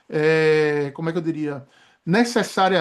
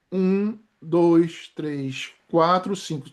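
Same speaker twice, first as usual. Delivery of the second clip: holding breath; 2 semitones lower, much slower than usual. Shown as a demonstration. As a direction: count with breath held in. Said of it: "Tô prendendo a respiração".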